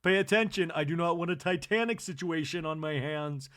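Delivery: high, loud call to order; commanding call. Retold or imitated. Kathy calling the ladies to order, loudly. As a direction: demand their attention. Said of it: "Kathy goes".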